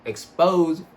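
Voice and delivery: talking around new braces; words slurred by braces. Real, not acted. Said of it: "Sorry, I got braces on".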